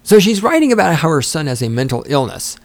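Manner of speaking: normal talking voice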